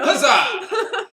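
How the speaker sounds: loud, high cheer of victory; triumphant shout. Acted.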